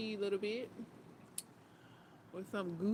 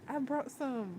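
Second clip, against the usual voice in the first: quoting the movie line; 4 dB louder than usual. Retold or imitated. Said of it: "He says".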